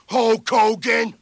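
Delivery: shouted name. Acted. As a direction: belt out the name. Commanding a dive.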